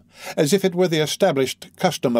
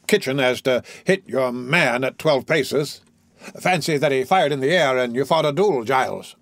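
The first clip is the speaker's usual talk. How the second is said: chuckling, mocking old doctor; lightly voiced jovial doctor; teasing laugh. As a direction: tease Giles with a laugh. Doctor teases Giles, laughing.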